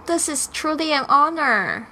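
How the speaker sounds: This is truly an honor said at quick natural speed; brisk native-speed line; fast conversational read; fast dialogue. Shown as a demonstration. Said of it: "Let's do a fast one".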